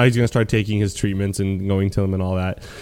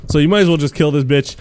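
Nessie quote; 4 semitones higher, 3 dB louder than usual. Retold or imitated. Nessie voiced in retelling.

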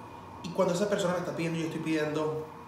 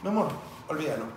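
decent polite tone; 5 dB louder, faster than usual. Retold or imitated. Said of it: "con este tono y tan decente".

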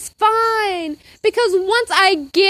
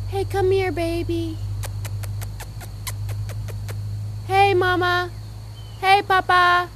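sweet talk to dog; 2 semitones higher, 5 dB quieter than usual. Shown as a demonstration. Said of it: "tell your dog".

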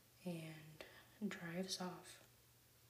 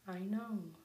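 whispered mock yell; 2 semitones higher, 7 dB louder than usual. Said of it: "as Randy yells".

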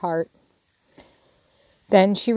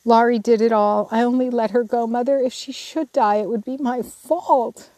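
higher, tearful pleading, slowing at the end; a touch of weeping remorse; penitent tears; 4 semitones higher than usual. Acted. Jo confessing to Mother, lightly voiced tearful remorse. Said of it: "in a passion of penitent tears".

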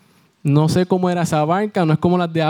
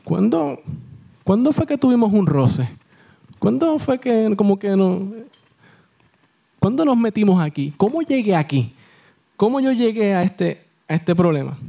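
puzzled, a little higher questions; bewildered; 3 semitones higher than usual. Retold or imitated. Preacher voicing a confused person, puzzled and higher. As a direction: wonder how you got here.

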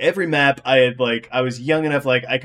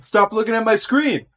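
put-on high whiny kid complaint; whiny tattling little sibling; 8 semitones higher than usual. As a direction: whine it like a bratty younger sibling. Acted sibling quarrel over split screen.

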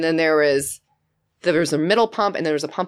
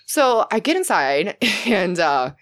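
super polite; 2 semitones higher than usual. Retold or imitated. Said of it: "I was super polite".

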